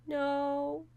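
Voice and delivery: loud defiant refusal. Pretend. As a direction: refuse loudly, not giving in. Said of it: "Do you wanna give up?".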